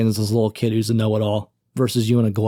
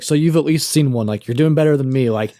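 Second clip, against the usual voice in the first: frantic begging teacher; 3 semitones higher, 4 dB louder than usual. Retold or imitated. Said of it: "he's, like, frantic".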